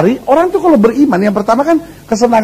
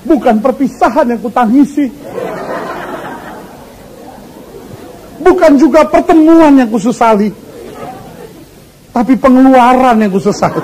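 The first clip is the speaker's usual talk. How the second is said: put-on recited old saying. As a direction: declaim it like an old poem. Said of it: "zaman dulu orang bilang begitu".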